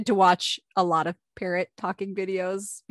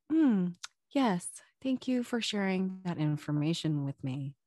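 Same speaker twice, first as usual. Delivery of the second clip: put-on proper little boy; 5 dB quieter than usual. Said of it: "very kind of proper way of talking".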